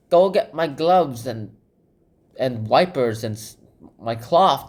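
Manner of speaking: a touch of a bossy high rabbit. Retold or imitated. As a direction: order the servant around. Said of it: "he's all like".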